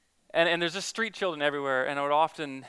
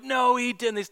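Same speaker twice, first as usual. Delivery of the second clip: much higher scoffing denial; mocking retort; 8 semitones higher, slower than usual. Jeering teens dismissing the forgiveness claim, high scoffing. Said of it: "laughing and saying all manner of filth".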